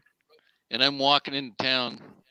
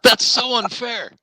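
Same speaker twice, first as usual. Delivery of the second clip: laughing; 10 semitones higher, 6 dB louder, much slower than usual. Real, not acted. Mock protest through laughter.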